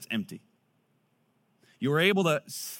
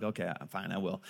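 mock sulky mumble, lower and softer; a grudging little girl giving in; sulky daughter; 8 semitones lower, 8 dB quieter than usual. Imitating his daughter grudgingly agreeing to tidy up. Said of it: "so she's like".

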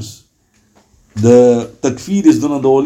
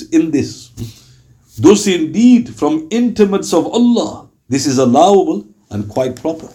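formal quotation. Acted. Reads a scholar's quotation aloud.

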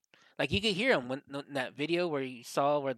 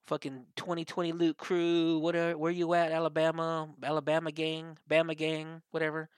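mock hype; 3 semitones higher than usual. Mimicking a looter's hyped video post.

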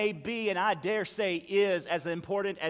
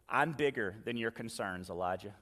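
lightly voiced God; 7 semitones lower, 6 dB quieter than usual.

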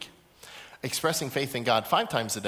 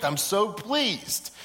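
pleased; 4 semitones higher, much slower than usual. Acted. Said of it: "The Father in heaven's going".

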